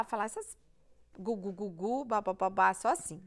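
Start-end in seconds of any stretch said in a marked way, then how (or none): 1.2-2.7 lightly mimicked baby babble; string of repeated baby syllables. Shown as a demonstration. Doctor demonstrating a baby's first nonspecific sounds, babbling. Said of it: "ele balbucia".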